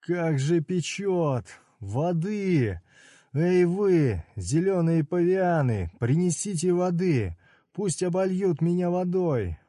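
high anguished cry for water; anguished plea. Acted. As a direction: beg for water, burning. Udo begging for water.

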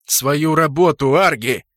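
barked. Acted. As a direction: snap each word out slowly and hard. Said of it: "рявкнул Спрут". (рявкнуть медленно и громко)

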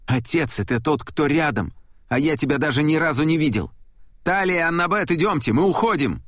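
put-on a high, bitter boy throwing the word back; bitter retort. A narrator's reading. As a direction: spit the word back at him. Luke rejecting his father. (Лука с горечью отвечает отцу, высоко)

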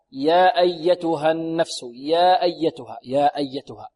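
slow recitation with "يا" held for two beats; two-count madd. Shown as a demonstration. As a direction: give the aa of "يا" a short, measured stretch before "أيتها". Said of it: "حركتان، هكذا". (مدّ "يا" حركتين قبل همزة "أيتها")

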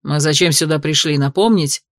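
low ghostly voice; a grumpy spirit scolding; stern ghost. Acted. Ghost voice continues.

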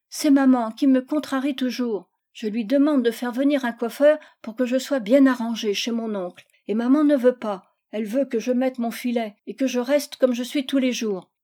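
lightly voiced aggrieved little girl; spoiled child complaining. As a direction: complain to papa about maman, a touch insistent. (petite fille gâtée qui se plaint)

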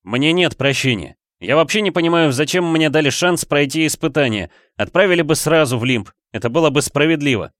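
agitated, high-pitched lament; anguished self-reproach. A narrator's reading. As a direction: blame yourself with rising distress. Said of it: "сокрушался он". (сокрушаясь, с горечью)

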